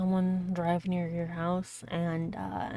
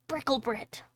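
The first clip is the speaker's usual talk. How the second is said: cried out; 5 semitones higher than usual. A narrator's reading. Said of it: "said he, and cried".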